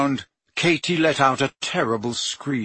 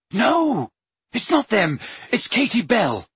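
high, hurried urgency; urgent; 8 semitones higher than usual. Acted. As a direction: push the answer out quickly. Harry urgently answers.

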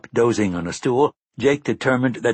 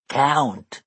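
higher, stern little creature voice; stern animal cry; 5 semitones higher than usual. Acted. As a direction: bark it out like a small animal. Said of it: "Oi cried sternly".

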